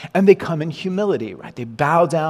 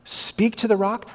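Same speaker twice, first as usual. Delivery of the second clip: pitched up high in disbelief; an indignant high protest to God; incredulous; 7 semitones higher than usual. Pretend. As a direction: throw the question up high, outraged. Moses' imagined inner protest.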